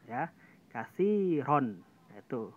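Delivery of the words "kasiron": kasiron drawn out very slowly with a thick, heavy ro. Shown as a demonstration. Teacher reciting a heavy ro example for the class, slow. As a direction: stretch out kasiron, darkening the ro. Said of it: "tebal banget tuh".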